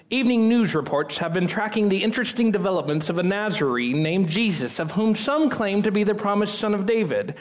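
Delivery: lightly mock anchorman read; news reporter voice. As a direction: play it like an evening news anchor. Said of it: "I'm gonna do my best news reporter voice".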